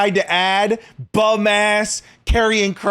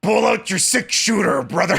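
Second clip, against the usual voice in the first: Hulk Hogan western voice; 4 semitones higher than usual. Pretend. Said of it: "Western accent ... turns into Hulk Hogan".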